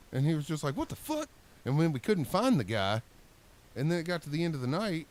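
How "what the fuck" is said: tags 1. Retold or imitated. Boss reacting with disbelief.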